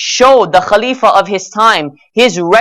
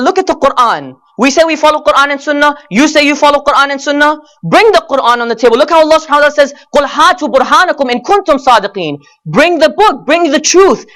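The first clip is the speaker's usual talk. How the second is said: higher-pitched, urgent challenge to opponents; impassioned preaching; 5 semitones higher, faster than usual. Real, not acted. Preacher challenging opponents to bring proof, impassioned. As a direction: press each demand home, pitch raised.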